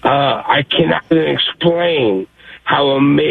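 ordinary delivery

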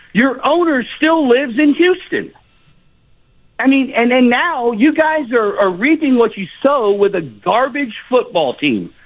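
impassioned fan calling out the team; passionate. Real, not acted. Aggrieved Oilers fan scolding the radio hosts, passionate. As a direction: lay into them with fervent, emphatic indignation. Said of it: "I hear the passion in, in your voice".

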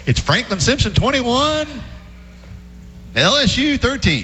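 radio sports announcer impression; Kay Wood Ledford. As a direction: call the final score like an old radio broadcaster, pausing between the numbers. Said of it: "Is that your Kay Wood Ledford impersonation".

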